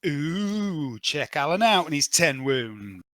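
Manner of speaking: teasing, drawn-out ooh of fake awe; mock impressed. Game master teasing Alan about his ten wounds, mock impressed. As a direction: rib him as if hugely impressed.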